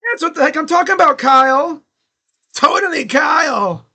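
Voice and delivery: fast, high, loud fan cheer; excited cheering. Real, not acted. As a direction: cheer for him at full voice. Fan cheering the home run.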